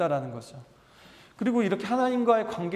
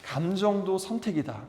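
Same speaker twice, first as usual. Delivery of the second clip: call for repetition; 3 dB quieter than usual. Shown as a demonstration. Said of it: "따라해 봅시다".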